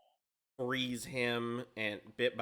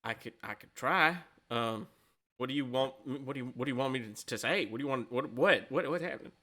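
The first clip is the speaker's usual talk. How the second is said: lightly voiced flustered halfling, repeating himself; Jimothy. Halfling asked to speak to a dragon, mildly flustered. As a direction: stammer through it, mildly uneasy and confused. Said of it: "he's clearly, like, very uncomfortable".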